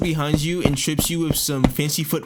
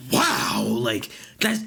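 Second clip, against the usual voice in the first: stunned disbelief; 3 semitones lower, much slower than usual. Acted. Reacting to a weird message.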